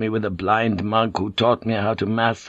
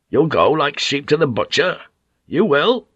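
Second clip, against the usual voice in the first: higher, louder ominous warning; rising warning; 5 semitones higher, 4 dB louder than usual. Acted. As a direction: drive the threat home. Warning crew, voice rises.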